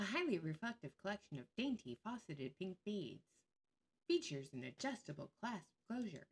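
reading the listing aloud, mocking. Shown as a demonstration. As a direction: read the listing with scorn. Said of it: "It's a bolo necklace that has".

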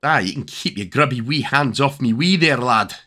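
lightly put-on, bad Scottish accent; a hint of a hammed-up Scottish brogue; terrible Scottish accent. Gamer jokingly voicing a Scottish character, bad Scottish accent. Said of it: "Terrible Scottish accent".

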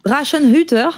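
put-on a playful stab at a German accent, starting over twice; mock German accent. Host reads the German game title aloud, in a mock German accent. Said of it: "très bel accent anglais".

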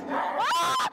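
high sharp shriek; startled scream. Real, not acted. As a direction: shriek at the scare. Jump scare in haunted maze.

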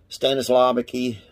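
"Stanislavski" said slowly and carefully; tentative, drawn-out "Stanislavski"; unsure pronunciation. Real, not acted. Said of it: "if I pronounced that right".

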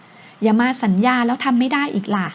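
slow mock sulk, lightly done; sulky pout. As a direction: pout at him playfully. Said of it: "เธอทำเสียงงอนๆ".

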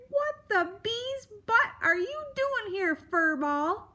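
high, loud irritated creature voice; snarling grumpy beast. Acted. Grumpy beast confronts a mouse in his log, snarling. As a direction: snarl it like a grouch rudely disturbed. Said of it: "it snarled".

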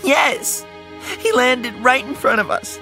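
put-on high, distraught child voice; upset girl pleading to be believed; tearful girl. A narrator's reading. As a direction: pour it out high-pitched, on the edge of sobs. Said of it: "Brooke started to sob".

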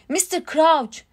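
narrated shout. A narrator's reading. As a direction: raise the voice in urgency. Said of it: "diye bağırdı Harry".

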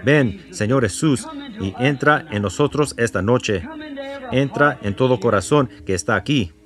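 earnest spoken prayer to the Father; earnest congregational prayer. Acted. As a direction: pray it steadily for the congregation. Leads a prayer after bowing heads.

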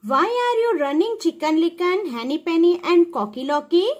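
quick, high storybook questioning; acted puzzled question. Ducky Lucky meets the running birds, puzzled question. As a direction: ask it fast, starting high.

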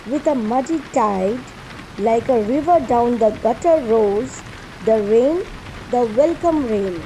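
measured verse reading, pausing after each line; poem recitation. Acted. Recites Longfellow's poem before explaining it.

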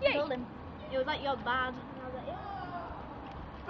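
mouth full. Real, not acted. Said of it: "Can you breathe?".

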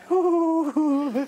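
imitating a jittery nervous laugh. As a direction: hoo hoo like an anxious giggle. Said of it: "can you give me an impression of his nervous laugh".

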